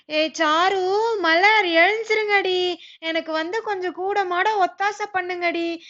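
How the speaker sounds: loud, slow near-crying plea to the daughters; mother half-sobbing for help with the chores; tearful calling out. Acted. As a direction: wail their names, close to tears.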